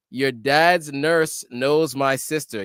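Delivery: slow, every word weighed, "dad's" leaned on; amazed slow repeat. Real, not acted. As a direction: savour the coincidence, slowly. Amazed repeat of viewer comment.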